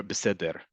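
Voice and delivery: beseder with short "e" vowels and a pronounced final r; alternative resh. Shown as a demonstration. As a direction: sound the resh at the end of beseder. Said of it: "however you wanna say the letter resh".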